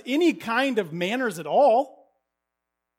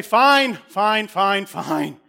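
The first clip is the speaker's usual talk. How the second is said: exasperated giving in; 8 dB louder, much slower than usual. Acted. Neighbour gives in exasperated.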